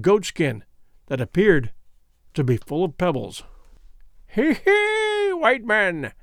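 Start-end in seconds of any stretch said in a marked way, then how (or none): 4.3-5.3 high, sly crone's snigger; witchy snigger. A narrator's reading. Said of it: "sniggered Gagool". 5.3-6.1 sly crone's jeer; sniggering old witch. A narrator's reading. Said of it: "sniggered Gagool".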